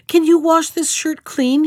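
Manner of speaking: high, loud eager question; crying out. Acted. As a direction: call out the question urgently. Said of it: "he cried".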